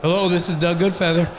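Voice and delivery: lightly voiced man answering the phone; a hint of a phone answerer; answerer's voice. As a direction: answer the call plainly. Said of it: "it's gonna say beep".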